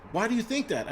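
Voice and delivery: high-pitched incredulous wife imitation; retold challenge. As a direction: mimic a wife questioning in disbelief. Wife challenges him in retold argument.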